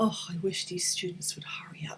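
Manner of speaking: delicate, half-audible mutter under the breath. Teacher imagining a classroom, uttering a wish, muttered under the breath. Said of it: "muttering or uttering some words very delicately, almost under my breath".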